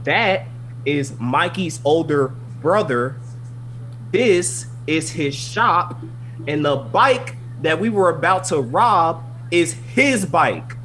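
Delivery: slow, heavily spaced retold revelation; slow, emphatic reveal. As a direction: spell it out slowly, phrase by phrase. Retold dramatic reveal to friend.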